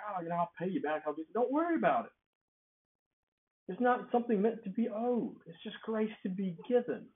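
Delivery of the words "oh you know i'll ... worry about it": casual brush-off. Retold or imitated. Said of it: "you know, like".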